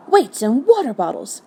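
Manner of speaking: high, exasperated exclamation; comic spluttering outrage; angry voice. A narrator's reading. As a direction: burst out in indignant annoyance. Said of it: "came an angry voice".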